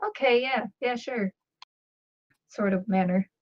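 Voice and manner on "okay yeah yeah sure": softer, higher, half-hearted agreement; lightly acted offhand dismissal; dismissive agreement. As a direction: brush it off with a mock yes. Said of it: "throw my head up in the".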